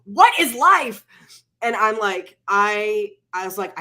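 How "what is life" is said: higher, louder, slow exasperated cry; mock livid. Husband on the phone, livid she got no medicine, mock exasperated. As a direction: throw up your hands in mock outrage. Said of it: "he's livid".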